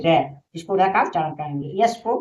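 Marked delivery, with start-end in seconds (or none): 0.1-0.4 र as an R with a short open vowel, said louder; phonic R sound. Shown as a demonstration. Teacher shows how R is read, emphatic phonic sound र. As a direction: sound out र firmly. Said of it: "र पढ़ेंगे".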